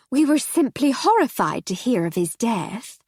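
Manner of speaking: theatrically horrified hostess; society lady voice. Acted. Mrs Seddon shocked.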